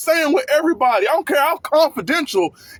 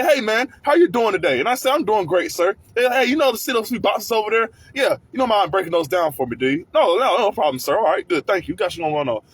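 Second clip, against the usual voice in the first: polite boss voice; 4 semitones lower than usual. Retold or imitated. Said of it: "you know how they talk to you?".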